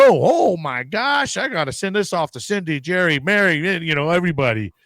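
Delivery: breathless gossip voice; mock excitement. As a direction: gush about sharing the post.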